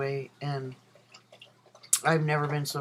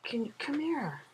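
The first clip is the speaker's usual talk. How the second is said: much higher sing-song to the dog; 10 semitones higher, 4 dB quieter, slower than usual. Real, not acted. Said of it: "I sound way more girly when I talk to my dog".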